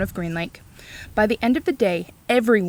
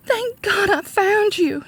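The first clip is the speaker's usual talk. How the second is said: sighing; 11 semitones higher, 4 dB louder, slower than usual. A narrator's reading. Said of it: "she sighed".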